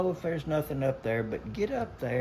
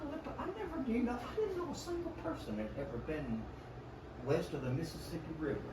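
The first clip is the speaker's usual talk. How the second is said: high, put-on yokel voice mocking a newcomer; mock naive voice; 5 semitones higher, 6 dB quieter, faster than usual. Hunter mocking a clueless newcomer in a high put-on voice. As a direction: pitch it way up like a clueless greenhorn.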